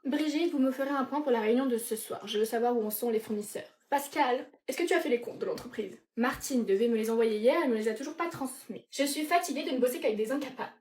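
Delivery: lightly acted demanding boss; woman of power. Boss Sophie chasing her staff, mildly imperious. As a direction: give orders as a fed-up executive. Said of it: "femme de caractère, femme de pouvoir".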